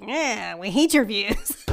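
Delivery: drawn-out, jeering online heckle; mock a sneering commenter, dragging the words; slow mock disdain; imitated haters. Quoting hostile online commenters.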